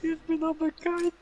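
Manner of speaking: high shrill panic; panicked scream. Real, not acted. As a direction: scream as you fall. Falls off roof, panics.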